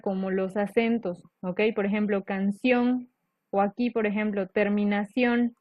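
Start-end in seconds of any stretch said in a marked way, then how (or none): 2.2-3.1 "canción" con la última sílaba más fuerte; acento al final. Shown as a demonstration. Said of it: "termina más fuerte". 4.5-5.6 "terminación" said slowly, last syllable "ción" stronger; stress on CIÓN. Shown as a demonstration. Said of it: "Esta parte de ción es la parte estresada".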